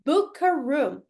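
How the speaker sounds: "Book a room" said clearly in English; English demo. Shown as a demonstration. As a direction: model the phrase "Book a room". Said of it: "book é o verbo reservar".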